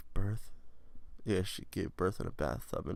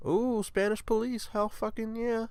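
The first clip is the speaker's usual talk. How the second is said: drawn-out high, excited voice; high-pitched cheer; 13 semitones higher than usual. Acted. Cheering on the police news.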